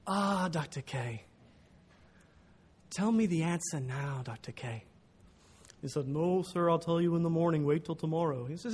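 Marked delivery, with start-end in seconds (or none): 0.1-4.8 put-on slow, careful Ugandan-accented plea; young Ugandan accent. Student begging his professor for the answer, Ugandan accent. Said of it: "I'm gonna have to do young Ugandan". 6.1-8.4 lightly voiced old Dutch teacher; a hint of the elderly professor. Professor putting off a Ugandan student, lightly voiced old Dutchman. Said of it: "elderly Dutch man with a voice box problem".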